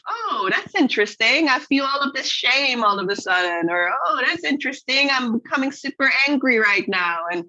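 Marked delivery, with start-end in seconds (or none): 0.1-3.7 curious. Retold or imitated. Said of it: "there is this curiosity of". 4.0-7.2 curious. Retold or imitated. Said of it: "there is this curiosity of".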